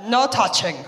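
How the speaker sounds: put-on toddler's Spanish accent. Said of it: "she's got a Spanish accent".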